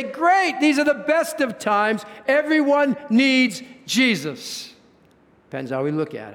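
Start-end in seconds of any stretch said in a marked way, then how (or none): 0.0-4.7 high, bright burst on "Great"; eager optimism. Retold or imitated. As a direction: seize the opportunity with lifted excitement. Voicing the optimistic view.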